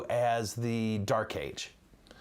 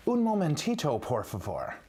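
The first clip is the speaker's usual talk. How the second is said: playful Spanish; 4 semitones higher than usual. Pretend. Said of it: "That's Spanish".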